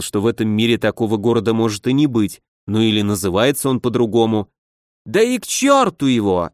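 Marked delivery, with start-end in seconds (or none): 5.0-6.5 emotional. Acted. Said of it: "эмоционально заявил".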